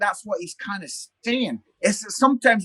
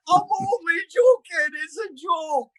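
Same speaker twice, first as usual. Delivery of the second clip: quick reassurance; 11 semitones higher than usual. Retold or imitated. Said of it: "And then I went".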